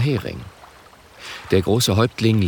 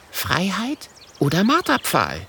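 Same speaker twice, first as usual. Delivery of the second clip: lightly voiced child; 10 semitones higher than usual. Wilde Hummel voice.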